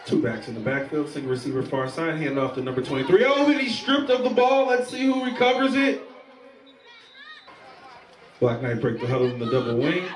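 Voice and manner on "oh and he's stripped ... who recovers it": sudden thrill as the ball comes loose; excited call. Real, not acted. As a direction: voice jumps high at the fumble. Fumble during live play-by-play.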